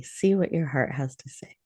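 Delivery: soft unvoiced whisper. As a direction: whisper it as if not to disturb. Meditation, listening to heart.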